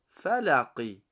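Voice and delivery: heavy ق in فلقی; heavy Qaf. Shown as a demonstration. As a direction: make the ق in فلقی thick. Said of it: "حرف قاف".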